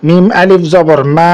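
long level hold on the last "মা"; four-alif elongation. Shown as a demonstration. Teacher demonstrating four-alif madd, final vowel held on and on. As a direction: spell it out and sustain the final "মা" very long. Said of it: "চার আলিফ টানার".

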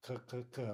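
short throaty k's, repeated; velar k sounds. Shown as a demonstration. Teacher showing students we make that in our throat, isolated velar k. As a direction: demonstrate k made in the throat. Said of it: "we make that in our throat".

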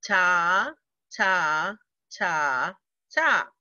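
"ta" chanted evenly on each beat; steady beat-by-beat "ta" reading; rhythm syllables. Shown as a demonstration. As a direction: tap out each "ta" like a quarter note. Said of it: "Ready? Here we go".

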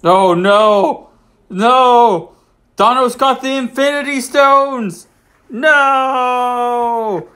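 mock-dramatic "Not the cat!"; mock panic. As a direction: wail like the world is ending, for laughs. Mock panic at villain scene.

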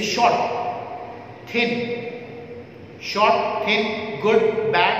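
शॉर्ट, थिन, गुड, बैड each said in one quick beat. Shown as a demonstration. Teacher showing students short words said in one go. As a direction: snap out शॉर्ट and थिन crisply without a break. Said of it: "एक ही झटके में बोला जाता है".

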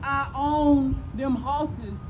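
slow, deliberate listing of what he owns; lightly voiced master, each claim weighed out slowly; voicing the old master. Storyteller mimicking the master's boasts to his son, slow and cold. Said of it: "He said, for example".

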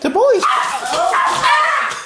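slow, high showman drawl; game show host voice. Pretend. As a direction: draw it out like a host. Drawn-out game show echo.

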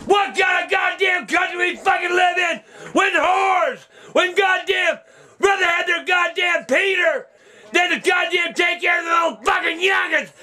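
shouting curses at Florida; spitting fury at the jury; furious rant. Real, not acted. Ranting at the verdict.

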